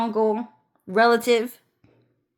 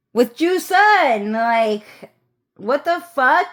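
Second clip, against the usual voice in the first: high, slow incredulous stress; disbelief; 3 semitones higher, 3 dB louder, slower than usual. Retold or imitated. Telling viewers he flirted with Ju Sun, incredulous. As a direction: stretch the name out in disbelief.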